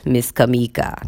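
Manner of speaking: Kamika said his way, low and measured; imitating his pronunciation. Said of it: "That's how he says my name".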